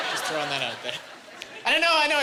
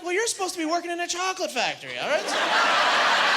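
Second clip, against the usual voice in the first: snappy comeback; 11 semitones higher than usual. Retold or imitated. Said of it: "I'm like".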